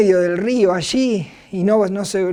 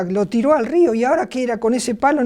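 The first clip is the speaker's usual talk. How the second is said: puzzled students; 4 semitones higher, faster than usual. Retold or imitated. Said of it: "me imagino los alumnos, dirá".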